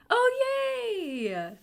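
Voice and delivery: high excited cry of joy; delighted squeal. Real, not acted. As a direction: squeal happily to a newcomer. Greeting a first-timer.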